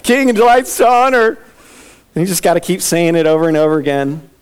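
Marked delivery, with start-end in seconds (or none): 0.0-1.4 a hint of holding back tears, higher and louder; forced proclamation, fighting tears. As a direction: finish the line as if it pains you. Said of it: "trying not to cry".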